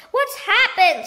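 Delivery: alarmed scream. A narrator's reading. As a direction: shriek in alarm. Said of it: "screamed Missus Twit".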